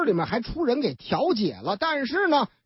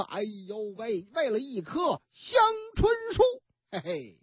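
mock lament; 3 dB quieter than usual. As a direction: ham up the pity, half crying. 感叹为一棵树杀人. (假哭着感叹，带点笑)

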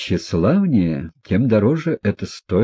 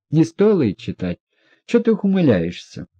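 higher, scornful lady's scolding; irritated scolding; 8 semitones higher than usual. A narrator's reading. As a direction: sneer at him from above. Лизавета раздражённо отчитывает князя. (раздражённая барыня, выше голосом)

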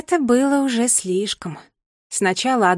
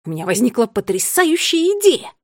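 loud, excited announcement; excited exclaim; 3 semitones higher, 6 dB louder than usual. Acted. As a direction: burst out with the idea. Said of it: "воскликнул гурман Скникс".

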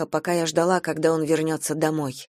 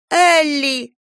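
put-on accusing child; 8 semitones higher, 5 dB louder than usual. A narrator's reading. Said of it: "Он обвиняюще показал на меня".

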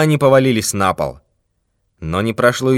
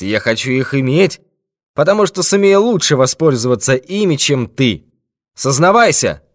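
threatening thief; 3 semitones higher, 3 dB louder than usual. Acted. Thief threatens old man with death, menacing. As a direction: promise him his last hour.

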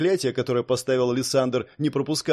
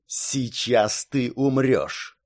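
slow menacing hiss; much slower than usual. Acted. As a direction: hiss the threat slowly. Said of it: "прошипел Лиссандр".

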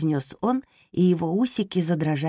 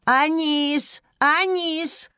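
high shout across the house; calling out; 10 semitones higher, much slower than usual. Acted. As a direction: call the boy from afar. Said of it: "крикнула". (громкий зов)

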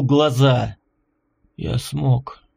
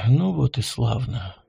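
quiet, lower weary sigh of relief; tired exhale; 4 semitones lower, 5 dB quieter than usual. A narrator's reading. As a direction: breathe it out, worn out. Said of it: "Устало выдохнула Вероника". (устало, на выдохе)

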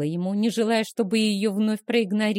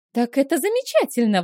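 exclaiming; 5 semitones higher, 3 dB louder than usual. Acted. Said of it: "воскликнула Вилма".

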